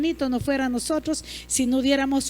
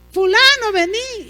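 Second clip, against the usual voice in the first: louder, higher mock call across the house; mild mock call to a child for help; 6 semitones higher, 6 dB louder than usual. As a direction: call the kid over to fix the gadget. Calling the kid for help.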